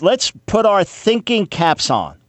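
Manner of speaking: patronizingly sarcastic, as if to a class. Pretend. Host mockingly tells listeners to put thinking caps on, sarcastic. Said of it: "Yeah, I'm being sarcastic".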